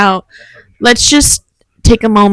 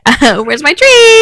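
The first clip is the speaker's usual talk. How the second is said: slow, higher pleading dog voice; dog's voice; 6 semitones higher, 3 dB louder, slower than usual. Retold or imitated. Friend voicing the dog to viewers, slow and higher. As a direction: voice the dog begging for his treat. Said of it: "He's like".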